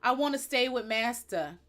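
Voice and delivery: mock devoted servant; Candace Owens. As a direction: put on a hint of a clinging servant. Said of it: "the type of person to be like".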